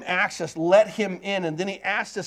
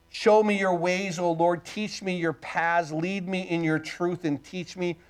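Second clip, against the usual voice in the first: scripture reading. Acted. Reads psalm aloud.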